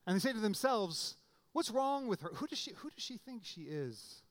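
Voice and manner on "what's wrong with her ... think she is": indignant muttering in a raised pitch; mock indignant. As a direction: act scandalized, starting high, then dropping in volume. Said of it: "But they're indignant".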